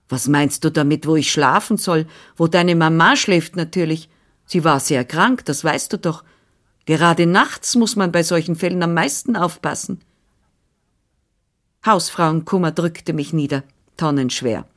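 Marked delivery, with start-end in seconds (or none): 0.1-10.0 a lightly voiced bustling older woman; brisk, busy housekeeper voice, only lightly put on; Frau Anna, brisk nurse. Nurse answering the father, lightly voiced and brisk.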